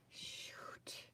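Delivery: breathy whispered shoot; a real muttered whisper of annoyance; whispered curse. Real, not acted. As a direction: hiss it under your breath. Mistake while gluing pages.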